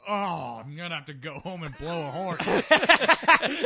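slow, drawn-out put-on voice; joke character voice. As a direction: draw it out like a dim joke character. Retold joke quote, slow odd voice.

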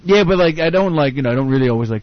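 lightly put-on Canadian accent. Shown as a demonstration. Comic shows friends his fake Canadian accent from school, lightly Canadian. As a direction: talk with a hint of a Canadian accent. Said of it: "not as good as my Canadian accent".

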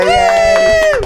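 sarcastic high yay; mock cheer. Host fake-cheering to the cohosts about only four stories. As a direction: squeal a fake happy yay.

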